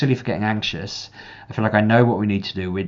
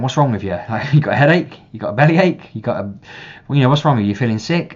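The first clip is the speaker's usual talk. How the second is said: put-on higher, louder, quick-fire questions like a nosy child; pestering little sister; 4 semitones higher, 6 dB louder, faster than usual. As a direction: imitate a big sister badgering her brother. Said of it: "And Emily kept saying".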